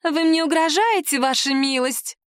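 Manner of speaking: snide sneering taunt. Acted. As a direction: needle her with fake concern. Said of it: "ехидно произнесла".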